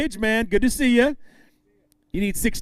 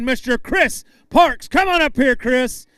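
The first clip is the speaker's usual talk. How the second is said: slow, louder stage call, pitched up; announcer call-out; 4 semitones higher, 4 dB louder than usual. Real, not acted. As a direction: boom his name out to the crowd. Announcer calling angler to stage.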